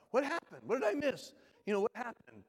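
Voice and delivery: high, puzzled questions; a father-in-law who just missed it all; surprised father. Retold or imitated. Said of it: "her dad's like".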